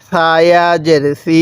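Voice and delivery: slow recitation ending on a long-held "সি"; drawn-out vowel. Shown as a demonstration. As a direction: stretch the ee in সি. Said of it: "এরকমভাবে টান দিব".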